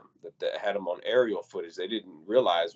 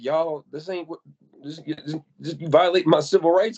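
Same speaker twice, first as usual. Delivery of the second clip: retold protest; 7 semitones higher, 4 dB louder than usual. Retelling the victim's protest.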